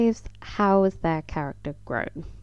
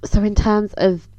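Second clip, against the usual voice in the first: real slip into a higher, louder squeak; squeaky voice; 4 semitones higher, 7 dB louder than usual. Real, not acted. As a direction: voice goes a bit squeaky by accident. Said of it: "my voice just went really squeaky".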